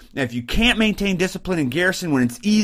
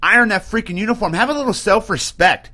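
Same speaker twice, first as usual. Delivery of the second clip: a hint of a drill sergeant correcting troops; lightly voiced NCO barking at a sloppy soldier; strict sergeant; 2 semitones higher than usual. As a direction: sergeant chewing out a soldier about his uniform. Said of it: "No, it is".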